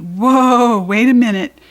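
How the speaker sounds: Mother stopping her at the pool; stopping call. Acted. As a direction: halt the child firmly.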